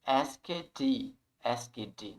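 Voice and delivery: "asked" in two syllables, like "ask-edi"; mispronounced asked. Shown as a demonstration. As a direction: add a voiced "ed" syllable to "asked". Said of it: "a gente não vai falar". ("asked" errado, com "édi" no final)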